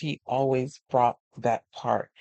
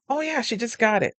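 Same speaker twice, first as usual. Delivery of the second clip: proud friend; 10 semitones higher than usual. Retold or imitated. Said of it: "And she was like".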